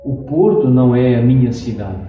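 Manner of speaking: usual speaking voice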